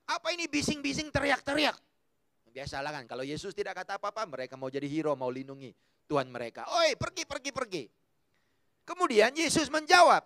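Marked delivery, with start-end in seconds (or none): 0.1-1.8 disciples barking at her to go away; mock shout; shooing shout. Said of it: "Mereka kata begini". 6.7-7.8 higher shoo, fading; mock shoo; shooing away. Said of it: "Mereka kata begini".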